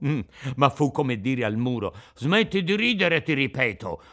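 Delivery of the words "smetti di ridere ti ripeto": threatening, higher and louder on "ridere"; menacing shout. Acted. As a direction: raise your voice to warn him. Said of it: "urlò con voce minacciosa". (urlato con voce minacciosa)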